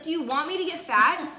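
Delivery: hammed-up offended complaint; mock indignation. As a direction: protest as if wronged, in fun. Mock quarrel over mom's bought cookies.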